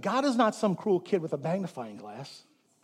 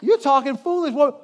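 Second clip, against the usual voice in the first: louder, punchy mock scolding; mock stern rebuke; 5 semitones higher, 6 dB louder than usual. Pastor acting out scolding his wife, mock stern. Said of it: "I talk to my wife like that".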